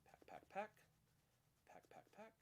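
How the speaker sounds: breathy whispered cue words; whispering. Real, not acted. Whispered self-cue while practising.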